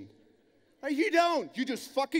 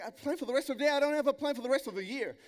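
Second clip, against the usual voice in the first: incredulous; 3 semitones higher, faster than usual. Retold or imitated. Newcomer answers mentor about plans, mildly incredulous. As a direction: echo the question in mild disbelief, a bit higher. Repeating the question in disbelief.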